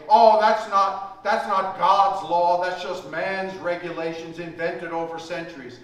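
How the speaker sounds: loud imitated objection, only mildly hammed-up; mock squealing protest. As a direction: protest loudly as the defensive sinner. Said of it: "squeal and scream and try to say".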